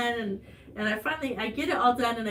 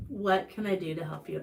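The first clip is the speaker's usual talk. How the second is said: calm, mildly lowered voice; understated, gentle question; 3 semitones lower, 3 dB quieter than usual. Retold or imitated. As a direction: imitate a husband's calm offer. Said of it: "he calmly said".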